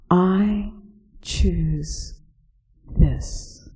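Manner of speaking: slow, soft, with pauses between words; halting and hushed. Acted. Speaker facing the vast beast, quietly hesitant. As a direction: test each word quietly.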